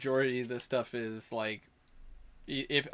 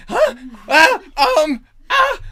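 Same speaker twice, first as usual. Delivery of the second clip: much higher, loud panicked goblin stammer; flustered goblin; 13 semitones higher, 14 dB louder, slower than usual. Acted. The goblin hero told he must now protect the town, high panicked squawk. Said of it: "And he's like".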